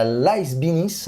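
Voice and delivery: Lies Beneath in a light English accent, slowly; a Frenchman carefully attempting an English accent on Lies Beneath; drawn-out English accent on a game title. Real, not acted. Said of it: "désolé pour mon accent anglais".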